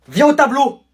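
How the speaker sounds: loud teacher's command; strict order. Acted. Teacher ordering pupil to the board, loud command.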